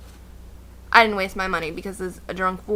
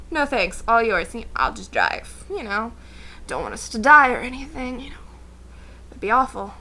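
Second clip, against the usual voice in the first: polite refusal. Retold or imitated. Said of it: "So, politely".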